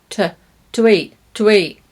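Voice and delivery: "to eat" with t and schwa, "tə eat"; quick light "tə" before "eat"; weak form. Shown as a demonstration. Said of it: "I'm using the t and the schwa".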